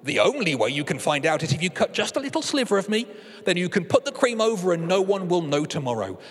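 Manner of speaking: a hint of a seductive cake; coaxing cake. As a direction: tempt him like a cake offering itself. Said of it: "Cakey thought some more and said".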